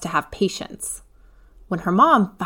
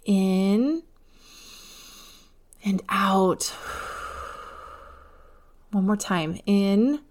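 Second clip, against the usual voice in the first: calm breathing guide. A narrator's reading. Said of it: "Let's take a deep breath together".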